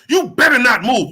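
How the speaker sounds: loud, lightly imitated police command; police talk. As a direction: quote a police order, with a touch of officialdom. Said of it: "That sound like police talk".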